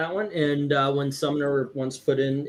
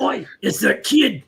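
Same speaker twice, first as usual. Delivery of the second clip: put-on Australian accent; 4 semitones higher than usual. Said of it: "that's how he said it".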